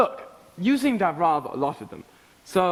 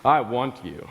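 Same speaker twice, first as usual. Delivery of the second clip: much lower, hammed-up romantic declaration through laughter; mock seductive lover; 6 semitones lower than usual. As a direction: play a swooning lover, half laughing. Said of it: "you stare her straight in the eye and you say".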